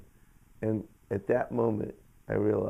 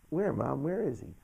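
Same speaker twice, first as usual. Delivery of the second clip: retold puzzled question, climbing higher; searching question; 5 semitones higher than usual. Son searches living room for the man, puzzled asking.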